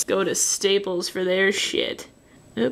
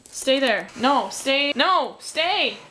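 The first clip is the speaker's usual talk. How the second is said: insist, higher every time it disobeys; insistent command; 5 semitones higher, slower than usual. Real, not acted. Artist ordering something to stay in place, rising insistent command. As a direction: pitch climbing with each order.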